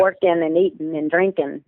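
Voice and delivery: "Working", "eating", "drinking" ending in -in' instead of -ing; dropped final g. Shown as a demonstration. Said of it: "they would end in I N apostrophe".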